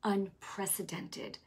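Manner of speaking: soft slow Unprecedented; hushed solemn word. Retold or imitated. Holy Spirit giving the word tonight, hushed and slow. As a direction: say the word slowly and softly. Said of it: "the Holy Spirit said tonight".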